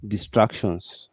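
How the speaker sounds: weighty, drawn-out "distractions"; emphasis on DISTRACTIONS. Shown as a demonstration. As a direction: stretch out "distractions" deliberately, without raising the voice. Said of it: "Emphasis on the word".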